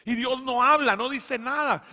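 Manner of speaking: fiery sermon climax; preaching at full force. Acted. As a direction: preach it out, driving each phrase home. Preaching climax about God's silence.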